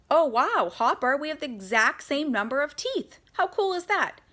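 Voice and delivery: put-on high, bright-eyed thrilled girl; little girl squealing with delight; excited. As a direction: gush over the same number of teeth.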